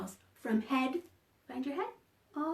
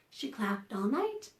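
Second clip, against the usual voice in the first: rhyme read aloud; slower than usual. Acted. Reads rhyme to children.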